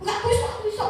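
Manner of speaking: half-hearted impression of a proud old man; stubborn father. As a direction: insist you can do it alone, a mock proud refusal. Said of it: "katanya gitu".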